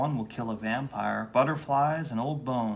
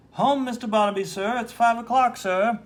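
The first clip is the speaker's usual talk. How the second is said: timid clerk; 10 semitones higher, 7 dB louder than usual. Acted. Timid clerk answers boss.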